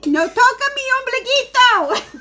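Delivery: hammed-up shriek in bad Spanish; mock Spanish. Wife mocking her senile husband in high mock Spanish. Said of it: "the only thing I can say in Spanish".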